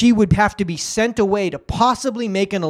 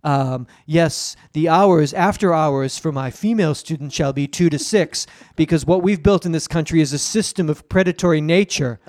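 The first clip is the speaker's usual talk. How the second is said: creepy professor; 4 semitones lower than usual. Acted. Predatory professor voice.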